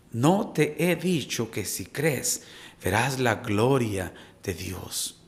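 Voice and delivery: lento, más bajo y suave; repítelo como promesa íntima; tierno recordatorio. Acted. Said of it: "Hoy Dios nos recuerda nuevamente". (lento y suave, tono íntimo y tranquilizador)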